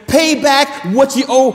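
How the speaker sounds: high, loud mock demand. Servant choking his debtor, mock angry demand. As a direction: bark it like a creditor. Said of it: "he demanded".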